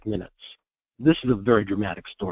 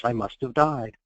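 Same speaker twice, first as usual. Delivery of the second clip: calm voice. Retold or imitated. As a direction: say it calmly, as if finally accepting it. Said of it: "she says in a calm voice".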